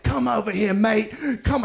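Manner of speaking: lightly imitated Australian accent. Australian dude takes the new guy under his wing, mock Australian accent. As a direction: put on a casual Aussie accent. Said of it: "He was Australian. That's what they sound like".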